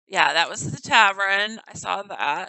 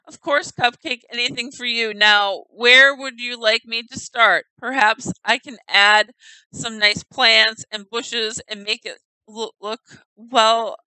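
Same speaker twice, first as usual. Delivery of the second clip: louder, lightly voiced charming villager; 6 dB louder than usual. Player voicing a flattering villager, louder. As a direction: read it as a smooth-talking townsman. Reading NPC dialogue aloud, voiced.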